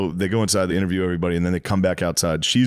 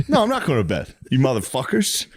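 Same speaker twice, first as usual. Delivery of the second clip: mock drunk refusal; 5 semitones higher than usual. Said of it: "And he's like".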